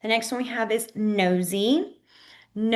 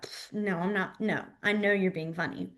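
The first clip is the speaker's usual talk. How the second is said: dismissive; 2 semitones lower, 5 dB quieter than usual. Retold or imitated. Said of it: "down being like".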